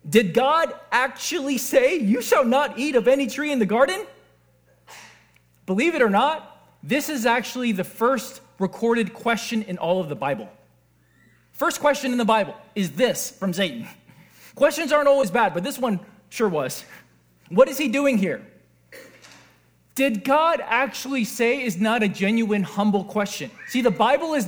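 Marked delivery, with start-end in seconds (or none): 0.1-4.1 mocking question. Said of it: "this is a mocking question". 20.0-21.6 slow, mildly mocking question; lightly sceptical, doubting question. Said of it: "this is a mocking question".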